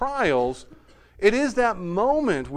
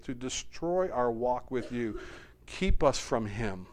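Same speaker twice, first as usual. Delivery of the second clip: low, softer pleading prayer; 4 semitones lower, 4 dB quieter than usual. Acted. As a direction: pray quietly for protection. Prays in the congregation's words.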